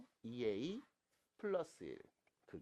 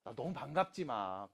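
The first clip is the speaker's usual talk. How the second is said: ordinary talk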